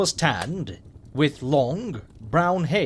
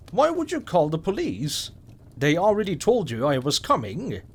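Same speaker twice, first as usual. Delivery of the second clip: put-on snooty little girl; scoffing child. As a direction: scoff at her like a know-it-all kid. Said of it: "she scoffed, sticking her nose up".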